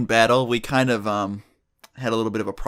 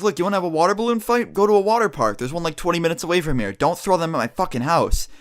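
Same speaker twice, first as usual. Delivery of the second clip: higher, fast scolding lady voice; mock the neighbor telling them off, pitched up; retelling the neighbor lady's high-pitched rant; imitating angry old lady; 5 semitones higher than usual.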